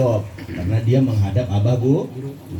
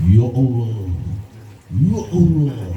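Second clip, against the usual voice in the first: mock calling out to God; lip-service prayer; 2 semitones lower, much slower than usual. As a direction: call on God, all mouth and show. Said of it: "Di mulut doang". (seruan doa pura-pura, di mulut doang)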